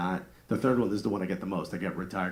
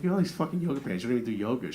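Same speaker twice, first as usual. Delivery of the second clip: fast teasing; 3 semitones higher, faster than usual. Retold or imitated. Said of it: "I'm like".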